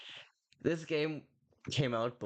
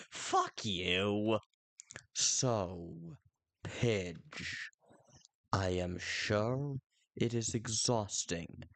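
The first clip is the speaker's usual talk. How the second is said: sinister villain; 2 semitones lower, slower than usual. Acted. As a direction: savor every word like a schemer.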